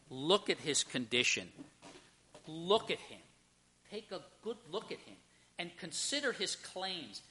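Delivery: hushed, deliberate appeal; Pilate. Acted. Pilate asking the crowd to consider Jesus, hushed appeal.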